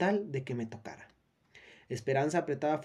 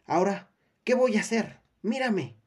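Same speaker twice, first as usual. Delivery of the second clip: tearful plea; 6 semitones higher, 6 dB louder than usual. A narrator's reading. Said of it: "su rostro se llenaba de lágrimas".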